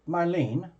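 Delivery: Marlene as two syllables, mar-LEEN. Shown as a demonstration. Host asking a client about her name, Marlene as two-syllable mar-LEEN. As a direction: end Marlene on a long "leen", questioning. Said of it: "Like two syllables?".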